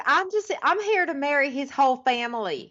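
high, put-on woman's voice; mock sing-out impression; Raven. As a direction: imitate an over-eager visiting girlfriend, high-pitched. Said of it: "so Raven, of course, comes to visit".

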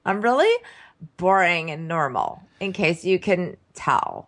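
mock nasal dating talk; lightly imitated nasal voice; nasally. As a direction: put it through the nose. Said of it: "they're having a really nasally conversation".

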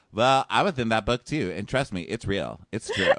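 lightly voiced little bear, swearing it's real; mock Nick voice. Podcast host imitating Nick as the little bear, mildly put on. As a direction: play a hint of a whiny bear.

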